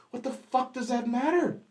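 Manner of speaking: high-pitched retold outrage; acted-out angry confrontation; indignant outburst. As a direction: protest in rising disbelief, voice pitched well up. Retold quarrel after late confession.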